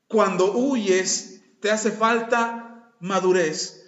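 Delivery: very slow, weighted preaching; slow emphasis. Real, not acted. Pastor telling the congregation what fleeing shows. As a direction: lean on each word. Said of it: "preaching emphasis".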